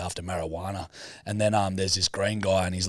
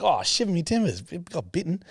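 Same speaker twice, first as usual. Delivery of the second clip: pirate voice; 10 semitones higher than usual. Retold or imitated. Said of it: "He's like".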